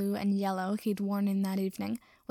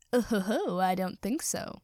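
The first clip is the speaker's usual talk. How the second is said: sneering. Acted. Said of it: "the wizard sneered".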